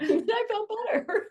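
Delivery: giggling through the words; laughing. Real, not acted. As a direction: laugh out the line. Laughing at herself.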